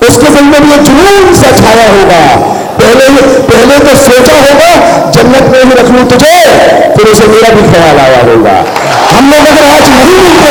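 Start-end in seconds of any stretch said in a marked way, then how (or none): 0.4-8.5 shayari recital. Shown as a demonstration. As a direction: let each line of the verse land. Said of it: "एक शेर यह है".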